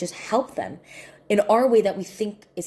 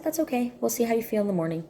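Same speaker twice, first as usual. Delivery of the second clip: put-on higher-pitched, quick soothing of a child; soothing reassurance; 5 semitones higher, much faster than usual. Aunt calming niece who dreads school, reassuring.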